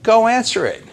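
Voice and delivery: high-pitched call from Mom; mock yell. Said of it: "heard my mom yell to me".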